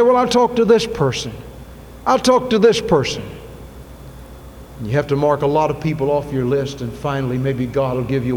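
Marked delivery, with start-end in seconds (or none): 0.0-3.2 insistent. Retold or imitated. Preacher voicing a listener's stubborn thought, higher and insistent. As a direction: push it, determined to find someone.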